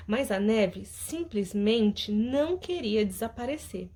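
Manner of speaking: storytelling voice for the class; lively read-aloud of a children's story. Acted.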